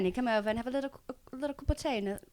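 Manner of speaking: soft posh British accent; upper-crust British accent. Shown as a demonstration. Darling offering tea, upper-crust British accent. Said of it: "upper crust and do this kind of British accent".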